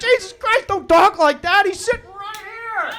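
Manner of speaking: high, scolding half-whisper; hushed rebuke. Retold or imitated. Dad scolding his wife in front of the baby, high and hushed. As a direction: hush her up, high and urgent.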